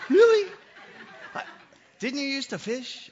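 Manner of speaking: high, loud teasing laugh then "Really?"; mocking laugh. Jesus teasing the fishermen about catching nothing. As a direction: laugh at them in disbelief.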